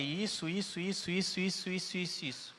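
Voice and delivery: retold sharp tone. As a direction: replay the impatient "isso, isso" that came across as aggressive. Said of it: "mas a entonação da sua voz não".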